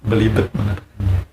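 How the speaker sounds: sheepish laugh through the words. Real, not acted. Teacher laughing at stumbling over the drill. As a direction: laugh at the own slip.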